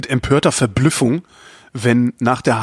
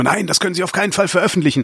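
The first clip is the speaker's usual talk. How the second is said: higher, hurried objection; mock alarmed protest; 7 semitones higher, faster than usual. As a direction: imitate an interviewee protesting in alarm. Acts out shocked interviewees objecting.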